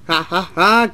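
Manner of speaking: loud gloating "ha, ha, ha"; cried laugh. A narrator's reading. Two pranksters after derailing Mac, crowing laugh. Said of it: "cried Billy and Duncan".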